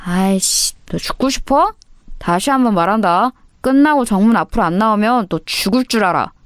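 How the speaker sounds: hinted thug menace; menacing threat. Acted. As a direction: lean in and threaten her. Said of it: "협박에 가까운 일진 오빠의 접근".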